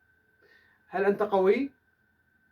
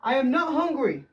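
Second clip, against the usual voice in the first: slow, higher, weight on not; slow classroom dictation, not stressed; 5 semitones higher, 3 dB louder, much slower than usual. Shown as a demonstration. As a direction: read the negative slowly for the class. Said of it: "teacher reads negative example".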